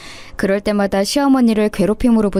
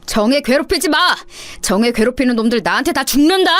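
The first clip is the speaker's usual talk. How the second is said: mild mock shout; 3 semitones higher than usual. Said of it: "이렇게 소리쳤다고 합니다".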